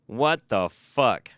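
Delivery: very slow, stretched what the fuck; drawn-out disbelief. Real, not acted. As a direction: drag "What the fuck?" out slowly in shock. Disbelief, then whispered repeat.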